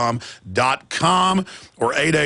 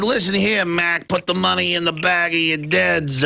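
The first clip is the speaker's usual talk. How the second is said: slow menacing gangster voice, hammed up; mock mafia thug; 2 semitones higher than usual. Federal mafia leaning on a pension fund, mock gangster menace. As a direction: lean in like a mob enforcer.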